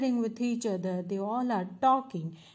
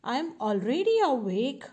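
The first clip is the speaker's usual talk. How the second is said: quick, lightly acted annoyance, rising on awake; mildly angry; 2 semitones higher, faster than usual. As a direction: protest with a touch of anger. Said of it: "That road gets angry".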